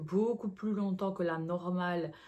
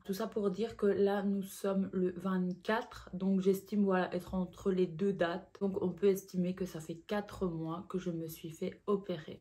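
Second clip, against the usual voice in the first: normal talking voice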